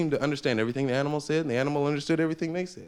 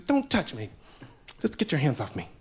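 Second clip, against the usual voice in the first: put-on girlfriend snapping. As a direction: brush him off like an annoyed girlfriend. Girlfriend rebuffs guy.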